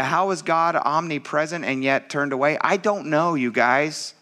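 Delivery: high, impassioned preaching; preaching at full force. Acted. Pastor urging congregation about Jesus' suffering, impassioned preaching. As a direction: pour it out to the church.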